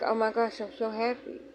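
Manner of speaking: deadpan, emotionless delivery of good news; monotone. Shown as a demonstration. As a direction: say happy words with no happiness. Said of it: "how monotone that was".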